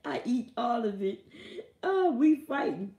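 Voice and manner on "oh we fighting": emphatic threat. Real, not acted. Angry about being tricked.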